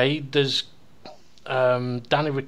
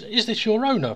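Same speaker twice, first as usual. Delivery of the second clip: lightly voiced higher question; joke's Englishman; 7 semitones higher than usual. Englishman asks horse about the Welshman, lightly raised voice. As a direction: pitch up the polite query.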